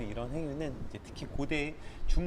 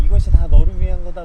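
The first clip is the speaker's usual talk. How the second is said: loud, higher insistent yell; father shouting his justification; angry shout; 5 semitones higher, 21 dB louder than usual. Retold or imitated. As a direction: bellow that it is all for his sake. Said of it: "지금 이렇게 말하고 있는 거거든요".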